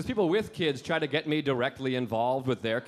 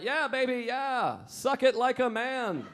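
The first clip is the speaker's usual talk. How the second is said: high, slow mock seductive voice; hammed-up bedroom voice; dirty talk; 7 semitones higher, slower than usual. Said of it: "I tried to talk dirty".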